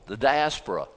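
"diaspora" as di-AS-po-ra, falling at the end; corrected stress. Shown as a demonstration. Preacher showing the congregation the fix, "diaspora" stressed as di-AS-po-ra. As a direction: stress the second syllable of "diaspora", di-AS-po-ra. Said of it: "the emphasis in the wrong syllable".

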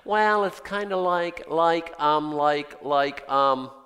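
put-on a light valley girl drawl, slow and groping with um and like; lightly voiced valley girl fumbling for words, slow. Preacher lightly voicing John at a loss for words as a valley girl. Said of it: "he sounds like a valley girl".

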